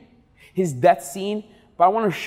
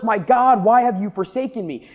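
mild shout. Acted. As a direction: lift it into a mild outcry. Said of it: "he shouts in the middle".

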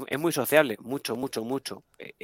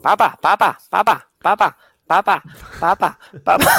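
put-on high, loud, insistent child calling papa; whining toddler; 7 semitones higher, 9 dB louder than usual. Mother playing her toddler son pestering dad, high loud whine. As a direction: nag for dad's attention like a small boy. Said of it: "el personaje nuevo".

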